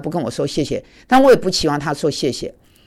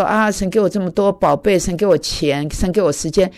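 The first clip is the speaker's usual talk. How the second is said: selfish believer. Retold or imitated. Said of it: "不是那么自私的说".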